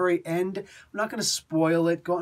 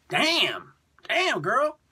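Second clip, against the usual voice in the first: admiring exclaim; 7 semitones higher, much slower than usual. Real, not acted. To the viewers about the Batgirl art, admiring. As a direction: swoon over the picture.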